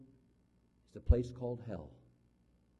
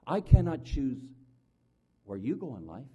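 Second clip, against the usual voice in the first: emphatic preaching; 7 dB louder than usual. Acted. Preacher stressing a point.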